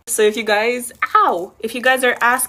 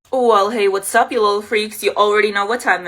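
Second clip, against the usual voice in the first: excited greeting; 5 dB louder than usual. Real, not acted. Loud intro greeting.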